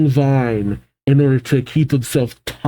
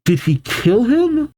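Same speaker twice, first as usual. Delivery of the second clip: alarmed question; 10 semitones higher than usual. Real, not acted. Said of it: "That's my question".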